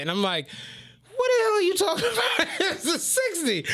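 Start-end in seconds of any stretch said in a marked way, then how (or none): 1.2-3.6 high, fast, laughing disbelief. Retold or imitated. Driver laughing at his coworker's bad pick, high and fast. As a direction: crack up while asking what the hell.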